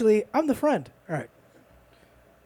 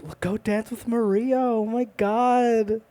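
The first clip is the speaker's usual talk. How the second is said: higher, drawn-out mom voice; imitated nagging mom; 5 semitones higher, slower than usual. Mom pushing her kid to dance at a party, exasperated. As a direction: put on a mom, pitched up and slow. Voicing his mom at family parties.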